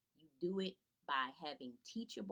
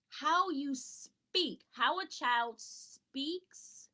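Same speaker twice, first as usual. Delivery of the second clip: higher, louder, very slow "How you speak"; slow emphatic; 7 semitones higher, 5 dB louder, much slower than usual. Shown as a demonstration. Teacher stressing the key point to parents slowly. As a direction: lean on every word, slowly. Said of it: "slow emphatic point".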